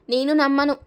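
stubbornly. Acted. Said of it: "అంది మొండిగా".

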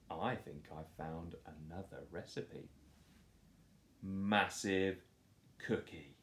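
hint at a new scheme; sly secret. Acted. Doris sly new plan.

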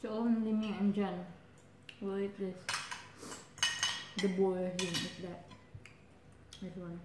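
speaking between bites; talking while chewing. Real, not acted. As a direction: mouth full of food. Seen 2: woman's cheeks bulge with food, chewing while speaking throughout.

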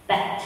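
bat with an audible final T; final T sounded. Shown as a demonstration. Teacher models bat for pupils, final T sounded. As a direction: finish bat on a released T. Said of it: "ออกเสียงตัวทีด้วยนะคะ".

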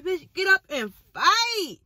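slow, stretched get up and fight; drawn-out mock threat. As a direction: drag it out like sis did. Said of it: "Oh, sis said".

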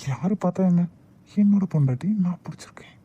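playful romantic whisper. Acted. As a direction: breathe it close to her ear. Husband teasing wife, holding her. (காதருகே கிசுகிசுப்பு)

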